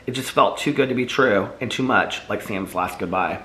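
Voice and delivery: steady read-aloud narrating voice; story narration. A narrator's reading. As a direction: read the novel to listeners, evenly. Author reads her novel aloud.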